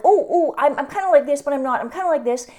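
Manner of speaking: hammed-up timid self-deprecation; imitating someone shyly playing small; mock humble girl. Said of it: "showing a little bit like".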